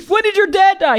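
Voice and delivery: high pushy producer question; pry for a sob story, hammed up; mock producer. Joining mock producer bit.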